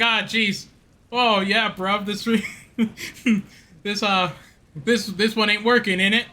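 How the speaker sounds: a hammed-up English accent for Henry the eighth; crappy English accent. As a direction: ham up a cheap English accent as a king. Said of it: "my crappy, like, English, uh, accent".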